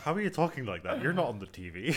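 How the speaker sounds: mock disbelief. Friend acting out meeting Americans in real life, mock disbelief. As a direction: act baffled by how they talk.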